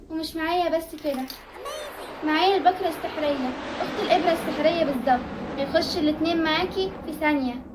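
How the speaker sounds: lightly voiced peddler's sales patter; metro street vendor. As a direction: run through the sales pitch in an even chant. Plays metro needle vendor. (نداء بياعة في المترو بنبرة رتيبة)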